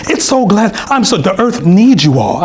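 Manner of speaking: lightly hammed-up gushing; a touch of emotional gushing; moved British lady. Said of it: "she had, like, tears in her eyes".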